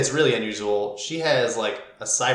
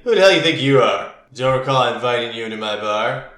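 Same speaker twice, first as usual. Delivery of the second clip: loud, fast, hostile challenge from a barfly; gruff challenge; 6 dB louder than usual. Acted. Tough patron at the bar confronting the newcomers, loud and fast. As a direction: bark it at the strangers, quick and loud.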